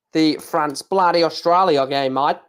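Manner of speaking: slightly hammed Aussie accent; slow, jokey Aussie twang; Australian accent. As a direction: slip into a mock Australian accent. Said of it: "sick to death of my accents".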